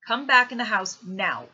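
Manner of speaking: father ordering his son inside, loud and firm; stern order. A narrator's reading.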